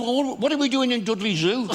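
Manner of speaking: high, loud punchline shout; indignant camel. Retold or imitated. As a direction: yell the punchline in mock outrage. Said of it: "He said".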